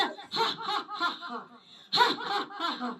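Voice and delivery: acted open-mouthed belly laugh, ha ha ha; open laughter. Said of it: "खुलकर हंसने लगा".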